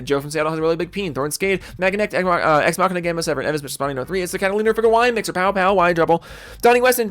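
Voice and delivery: lively, running roll call of names; shout-out roll call. Real, not acted. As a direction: rattle off the supporter list in one stream. Reads out club shout-outs.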